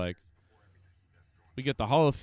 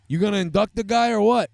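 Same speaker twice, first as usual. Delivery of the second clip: laughing heckle; 4 semitones higher, 3 dB louder, faster than usual. Real, not acted.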